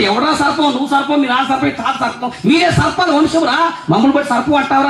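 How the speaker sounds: mock-offended, high-pitched scolding; indignant retort. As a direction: throw the name back at the pastor. Offended congregation answers the pastor back.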